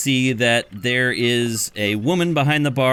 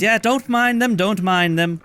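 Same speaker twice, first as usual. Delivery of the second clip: breezy barkeep; 10 semitones higher than usual. Acted. Barkeep tells the party to ignore the Tritons, high breezy voice. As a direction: brush it off lightly. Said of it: "barkeeper says".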